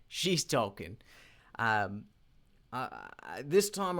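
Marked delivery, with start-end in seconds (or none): 0.1-1.0 amused repeat. Real, not acted.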